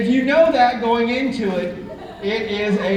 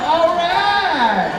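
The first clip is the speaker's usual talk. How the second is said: a touch of surprised agreement; 8 semitones higher, 4 dB louder than usual. Retold or imitated. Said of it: "I'm like".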